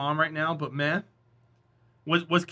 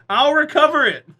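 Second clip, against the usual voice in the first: laughing; 9 semitones higher, 9 dB louder than usual. Real, not acted. Laughing after mom impression.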